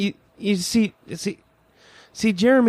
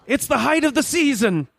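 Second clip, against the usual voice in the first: posh voice. Acted. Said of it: "Why do I bother with this posh voice?".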